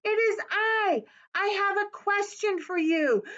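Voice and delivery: put-on boy putting his question to the owl; lightly voiced little boy. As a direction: ask it like an eager young boy.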